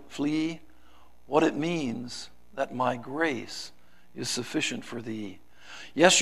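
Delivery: a dramatic poem read from the pulpit, voicing God and the pleader; poem recitation. Preacher reciting a poem to the congregation, dramatic. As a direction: let each line swell and fall like verse.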